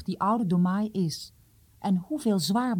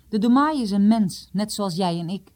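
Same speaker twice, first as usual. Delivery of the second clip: curt and louder, a mild sharp retort; 2 semitones higher, 4 dB louder than usual. Acted. Tors sharply answers his son-in-law about the Domai. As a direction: cut him down firmly. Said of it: "antwoordde Tors scherp".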